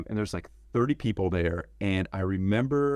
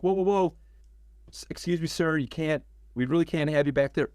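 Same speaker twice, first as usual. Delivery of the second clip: higher-pitched, hurried mock protest; urgent polite objection; 7 semitones higher than usual. Director stopping a man walking past cameras, urgent polite objection. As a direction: imitate politely stopping someone in alarm.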